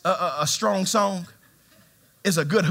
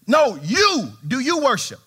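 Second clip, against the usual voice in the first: strong insistent stranger; 5 semitones higher, slower than usual. Retold or imitated. Stranger on the plane insisting, strong voice. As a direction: press it like a pushy stranger. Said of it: "he's very strong talking like this".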